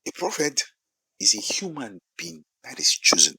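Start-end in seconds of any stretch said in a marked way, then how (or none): 1.2-3.4 "chosen" given extra weight; stress on chosen. Shown as a demonstration. Preacher defining a prophet for the congregation, stress on "chosen". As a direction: lean firmly on the word "chosen". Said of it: "Emphasis on the word chosen".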